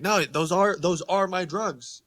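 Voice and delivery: hammed-up guilty confession; mock confession. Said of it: "I'm like".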